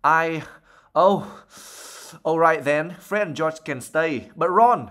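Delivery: a red-faced mother giving in angrily; angry flustered. Acted. Loud flustered anger. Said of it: "scarlet in her face".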